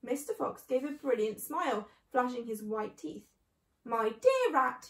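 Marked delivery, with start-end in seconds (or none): 3.8-4.9 slow, drawn-out mock-soft address; silky politeness, slowly; said softly. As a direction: draw it out slowly with soft courtesy. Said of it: "he said softly".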